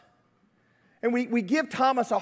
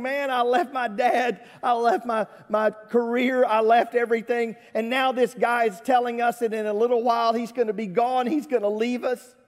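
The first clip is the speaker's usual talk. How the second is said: aggrieved complaint; 4 semitones higher than usual. Acted. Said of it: "Thomas is sitting there saying".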